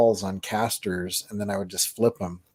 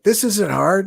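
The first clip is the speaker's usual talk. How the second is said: higher, louder mock-cocky voice; retold movie boast; 10 semitones higher, 5 dB louder, slower than usual. Man in ballet studio to onlookers, mock-cocky. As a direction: act out the film character, pitched up. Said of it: "and he's like".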